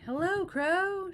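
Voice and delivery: loud, high, slow shout. A narrator's reading. Toad shouting to the crow from the speeding sled. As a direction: call out proudly to the bird. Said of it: "shouted Toad".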